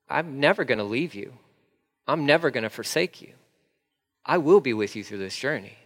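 reassuring Jesus. Acted.

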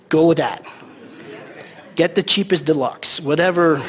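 chuckling through the words; laughing. Real, not acted. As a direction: laugh while you say it. Laughing while joking.

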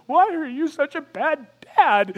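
put-on high, loud, slow voice of a confused little boy; little boy asking. Son Jonathan at the locked gate, slow high whine. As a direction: whine it like a let-down toddler. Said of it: "that's translated in my head".

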